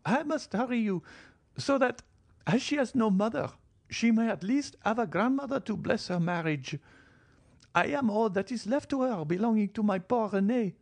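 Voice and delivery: put-on high, imperious old lady's voice; old marchioness. Old marchioness questioning her son-in-law, high and stiff. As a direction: voice the proud old grandmother, pitched high.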